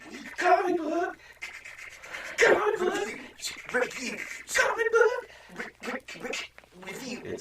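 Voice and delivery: loud, very high, stuttering announcer yell; glitchy, high-pitched shouted intro; hammed-up segment announcement.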